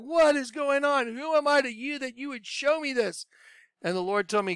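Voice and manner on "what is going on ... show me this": high-pitched bewildered pleading to God, held back; distraught question. Retold or imitated. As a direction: ask the heavens, shaken but not yet screaming. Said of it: "I was like".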